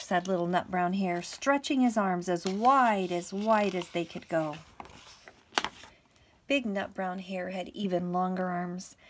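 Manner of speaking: measured, projected storybook reading; story narration. A narrator's reading. Teacher reading a bedtime picture book to pupils, story narration. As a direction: read it out clearly to little children.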